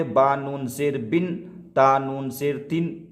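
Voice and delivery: measured spelling of "با نون زیر بن"; noon sakin demo. Shown as a demonstration. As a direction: close "بن" and "تن" on a clear n. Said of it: "اگر ہم یہ بولے". ("بن" اور "تن" میں نون ساکن کی آواز)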